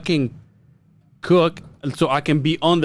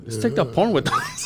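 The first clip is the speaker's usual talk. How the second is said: laughing shout; 4 dB quieter than usual. Real, not acted.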